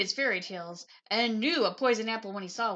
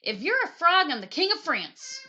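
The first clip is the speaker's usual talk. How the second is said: witch voice; 5 semitones higher, 8 dB louder than usual. Acted. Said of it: "said the witch".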